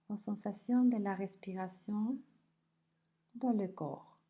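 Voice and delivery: unhurried body scan voice, leaving space between phrases; guided meditation. Acted. Teacher guiding listeners through a body scan, calm guided meditation.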